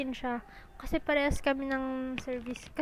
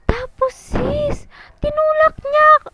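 hushed whisper to build suspense; breathy secret-telling whisper; 12 semitones higher, 14 dB louder than usual. Real, not acted. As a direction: lean in and whisper it. Building up to the big moment.

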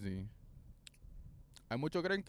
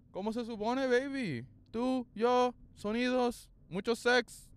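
higher, teasing put-on; mock seductive voice; 7 semitones higher than usual. To listeners, a mock seductive high voice. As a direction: flirt with the mic.

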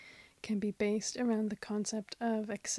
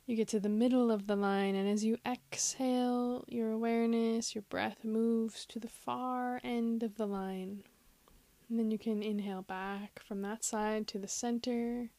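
measured meditation voice, long silences between phrases; guided meditation. Acted. Host guiding listeners to follow the breath, guided meditation. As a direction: lead them patiently through body and breath.

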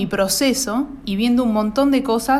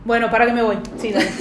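trying not to laugh; 2 semitones higher, 4 dB louder, much faster than usual. Real, not acted. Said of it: "No, no te rías".

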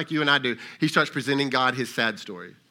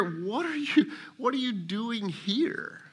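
voicing God; 6 semitones higher, 5 dB quieter, slower than usual. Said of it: "it's led you to hear".

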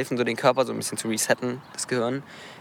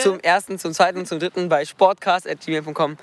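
auctioneer; 3 semitones higher than usual. Pretend. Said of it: "Versteigerungs-, T-V-Serie".

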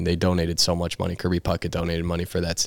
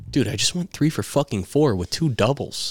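higher-pitched retold complaint; indignant protest; 5 semitones higher than usual. Player retelling his protest to the coach, indignant. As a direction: protest as if wrongly accused.

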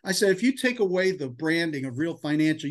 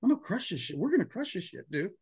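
higher, fast, pumped-up; hyped declaration; 5 semitones higher than usual. Retold or imitated. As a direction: tell Tyler you're going to win. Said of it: "Looked at Tyler, said".

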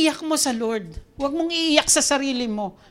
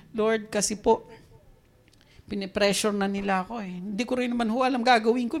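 lower, subdued plea that runs on; complaining to God; 4 semitones lower than usual. Acted. Moses telling the Lord he is being pressured, mild complaint. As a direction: pour out a mild complaint respectfully. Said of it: "O nagsusumbong si Moses".

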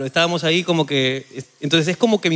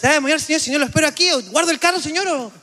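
retold deferential driver; 8 semitones higher, faster than usual. Voicing deferential guard-driver.

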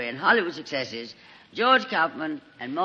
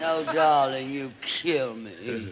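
sarcastic drawl; 6 semitones lower, slower than usual. Acted. Sarcastic retort to Monty.

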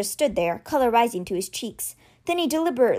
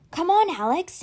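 earnest; 8 semitones higher than usual. A narrator's reading. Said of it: "he said earnestly".

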